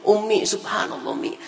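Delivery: a daughter hiding her tears from her mother, high and tender; wife to mother. Retold or imitated. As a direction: let the wife's voice rise sweetly. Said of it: "kata dia".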